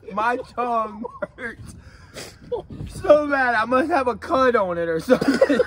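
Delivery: fast, laughing aside. Real, not acted. Friend with a stinging tongue, laughing as he guesses. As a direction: rattle it off while laughing.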